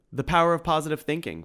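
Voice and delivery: high, quick chirp; piped. A narrator's reading. Tim chimes in to the two men, piping high. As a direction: pipe up brightly and fast. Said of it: "piped Tim".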